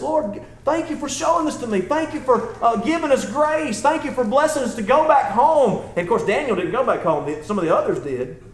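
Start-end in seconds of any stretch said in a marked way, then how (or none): 0.0-5.8 thankful prayer. Acted. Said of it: "he's just praying thankfulness".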